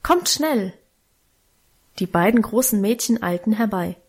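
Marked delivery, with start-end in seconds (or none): 0.0-0.7 urgent call. A narrator's reading. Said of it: "rief sie laut".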